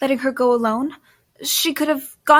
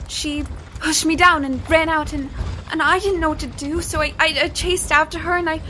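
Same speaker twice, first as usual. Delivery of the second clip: pitched up, stumbling and panicky; frightened stammer; 4 semitones higher than usual. Acted. Cornered woman stammering excuses to Jesse, frightened and higher. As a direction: babble the excuse, tripping over every word.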